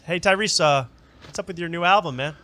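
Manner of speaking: calling out. Pretend.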